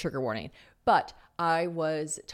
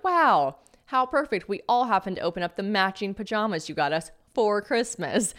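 mock gratitude dripping with sarcasm; sarcastic; 3 semitones higher than usual. Sarcastic reply to mom's gift.

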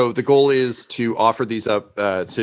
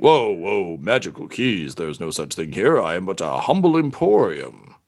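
lightly voiced shopkeeper, sliding lower; shopkeeper protesting; 4 semitones lower than usual. Shopkeeper denying any magical keys, lightly voiced. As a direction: wave off the request in character.

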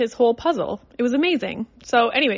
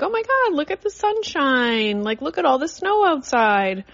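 cheery distraction; 5 semitones higher than usual. Retold or imitated. Mom cheerily distracting her son.

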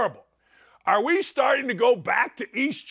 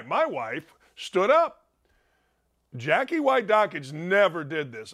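normal talking voice

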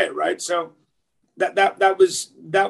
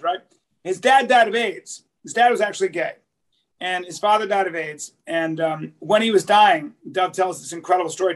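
ordinary delivery

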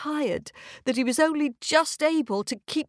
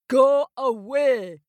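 loud, slow, higher roar; 5 semitones higher, 6 dB louder, slower than usual. Acted. Grumpy North Wind roaring at the girl. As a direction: bellow at her like a grumpy wind. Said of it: "he roared".

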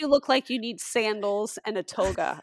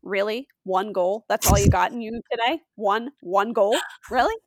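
half-raised voice, incredulous sports parent; mock parental yelling; 5 dB louder than usual. Parent on the field to her kids, mock yelling. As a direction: needle the kid with disbelieving questions. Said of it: "I'm, like, yelling at my kids".

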